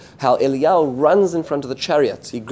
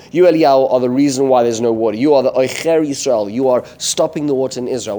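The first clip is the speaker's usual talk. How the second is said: louder, pointed accusation, mildly acted; imitating an accuser, louder on the opening words; retold accusation; 4 dB louder than usual. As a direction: lay the blame forcefully, in a storyteller's retelling. Achav accuses Eliyahu of drought.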